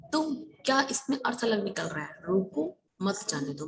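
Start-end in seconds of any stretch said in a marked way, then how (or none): 2.3-3.7 रोको alone, a short break, then मत जाने दो; pause after रोको. Shown as a demonstration. Teacher explaining the first meaning to pupils, pause after रोको. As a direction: split the phrase straight after रोको. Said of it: "मतलब उसे रोको मत जाने दो".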